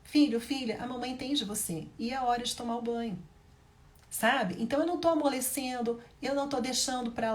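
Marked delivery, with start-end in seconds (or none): 0.0-3.2 gentle, then a firm turn to bath time; kind but firm. Shown as a demonstration. Mother firmly sending her son to the bath. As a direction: soothe first, then set the limit. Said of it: "Mas eu vou ser firme também".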